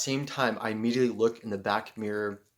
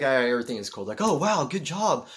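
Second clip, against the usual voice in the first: playing it cool; 4 semitones higher, 8 dB louder than usual. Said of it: "playing it cool".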